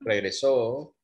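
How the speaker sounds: Regresó with a longer final O. Shown as a demonstration. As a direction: hold the O at the end of Regresó. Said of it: "say the last vowel a little bit longer".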